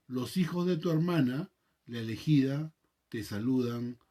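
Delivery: measured, solemn Bible reading; scripture reading. Acted. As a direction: read the epistle aloud to the congregation. Reads the scripture passage aloud.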